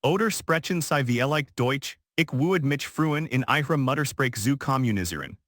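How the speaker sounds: crisp, fluent German; flawless German. Acted. Waitress offers rude diner to talk in German. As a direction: speak German like a native, measured. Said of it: "Her German was flawless".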